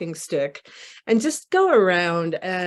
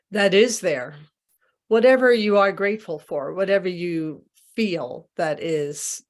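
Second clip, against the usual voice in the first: unhurried guiding voice with long pauses; guided meditation. Real, not acted. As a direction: lead a group into gratitude, leaving space between phrases. Leads a gratitude meditation.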